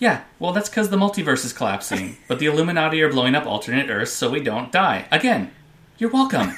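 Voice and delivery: mock-smug explanation; relishing it. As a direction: savour the boast as a devoted fan. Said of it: "You really love this, don't you?".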